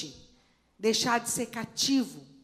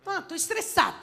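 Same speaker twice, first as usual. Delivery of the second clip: said cheerfully; 7 semitones higher, faster than usual. Retold or imitated. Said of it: "Falando estressada, toda alegre".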